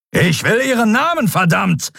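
furious high-pitched demand; thundering. A narrator's reading. Admiral demands the prisoner's name, thundering. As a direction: explode at the prisoner, voice jumping up. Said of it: "donnerte Telios".

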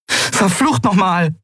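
high, drawn-out curse; exasperated interruption. Acted. Endriel cuts into the bickering, exasperated curse. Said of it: "funkte Endriel dazwischen".

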